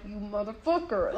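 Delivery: low, soft voiced swearing; calm whispered curse. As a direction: imitate cursing discreetly into an ear. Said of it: "very so calmly".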